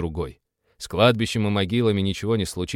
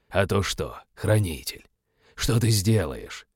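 demonic taunt; slower than usual. Acted. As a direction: tease him slowly and darkly.

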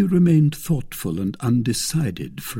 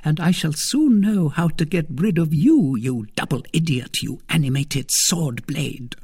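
between her teeth; 8 semitones higher, 4 dB louder than usual. A narrator's reading. Lady secretly despising her suitor, scornful between her teeth. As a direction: curse the fool privately through clenched teeth. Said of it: "said Milady between her teeth".

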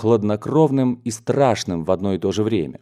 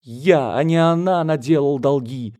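high-pitched desperate outburst; hammed-up anguished cry without much volume; wailing; 6 semitones higher than usual. A narrator's reading. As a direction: wail in despair, pitch climbing. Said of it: "вопил дядя".

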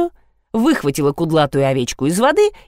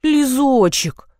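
tender coo; 6 semitones higher, much slower than usual. A narrator's reading. Narrator gently calms the tearful girl, slow tender coo. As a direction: soothe her with the name. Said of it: "ласково прожурчала я".

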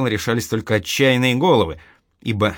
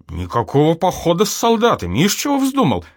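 put-on much higher, outraged old mother; indignant mother; 8 semitones higher, 3 dB louder than usual. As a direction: cry out in indignation at her son's idea. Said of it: "возмутилась и Ефимия Митрофановна". (возмущённо, высоким голосом матери)

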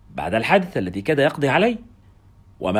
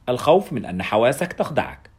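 plain reading voice

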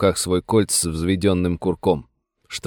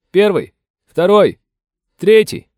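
much higher, louder, slow counting off; shouted roll call; 11 semitones higher, 6 dB louder, slower than usual. Acted. Soldiers sounding off for the sheriff, shouting. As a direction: bark the numbers from far across the road.

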